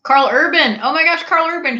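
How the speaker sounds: high, loud swooning name; fangirl gush. Real, not acted. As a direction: gush over the actor. Fan gushing about favourite actor.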